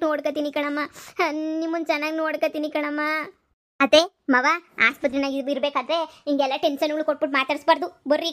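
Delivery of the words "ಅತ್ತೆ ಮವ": louder call to get the in-laws' attention; daughter-in-law breaking up the row, calling out. Acted. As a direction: call out to stop the quarrel. Daughter-in-law calls in-laws.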